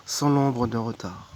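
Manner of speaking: measured recitation, phrases starting up and falling away; devotional poem reading. Acted. Reading Thérèse de Lisieux's love poems to viewers, devotional recitation. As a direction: read it as a prayer, pausing between lines.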